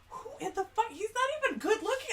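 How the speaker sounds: imitating dismissive kitchen staff; coworkers scoffing. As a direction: scoff at the celebrity like an unimpressed coworker. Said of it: "they're just like".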